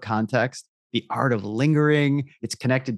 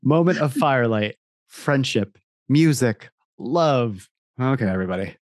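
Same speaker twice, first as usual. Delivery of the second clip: ad voiceover. Acted. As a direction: purr it like a liquor ad. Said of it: "I'll read that again".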